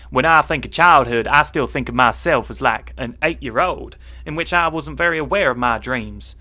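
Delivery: put-on Southern American twang; American accent. Correcting the slip mid-answer, in an American accent. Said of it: "I've got to do this in American".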